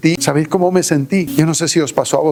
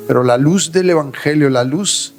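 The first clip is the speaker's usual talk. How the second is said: closing prayer; 3 semitones lower than usual. Acted. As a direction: pray it gently, winding down.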